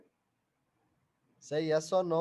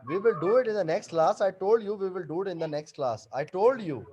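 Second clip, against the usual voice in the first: emphatic, slightly raised reminder; insistent; 3 semitones higher, 4 dB louder than usual. Real, not acted. Teacher reminding a pupil about next class, insistent. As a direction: firmly repeat it, pitched up a little.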